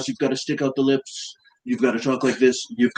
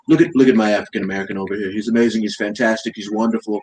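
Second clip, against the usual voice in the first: lightly voiced Trump, boastful and repetitive; Trump impression. Mocking Trump for a friend, lightly voiced boastful Trump. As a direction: praise everyone like a salesman president. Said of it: "That's a great impression".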